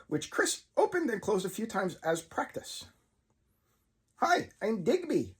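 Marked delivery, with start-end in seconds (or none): 4.2-5.3 slow, high little puppet greeting; a lightly voiced friendly puppet; thin squeaky puppet. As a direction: puppet says hello to Ray, thin and squeaky. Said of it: "in a thin, squeaky voice".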